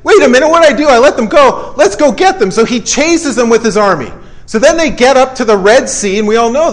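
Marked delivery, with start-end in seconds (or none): 0.0-2.5 agitated Pharaoh. Acted. Pharaoh acted regretting letting them go.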